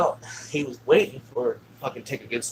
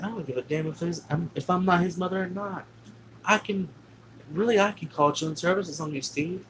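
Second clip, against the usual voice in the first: higher-pitched defiant retort; huge argument; 7 semitones higher than usual. Retold or imitated. Stepmother threatening dad with children's services, retold argument. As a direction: imitate an indignant woman arguing back. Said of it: "they had a huge argument".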